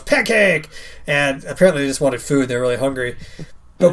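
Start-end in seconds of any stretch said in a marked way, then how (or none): 0.0-0.7 put-on child calling Pancake. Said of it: "And Leanna goes".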